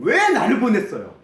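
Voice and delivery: high, loud protesting plea; aggrieved complaint. Acted. Moses protesting to God for sending him despite his weakness, aggrieved complaint. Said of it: "라고 하소연합니다".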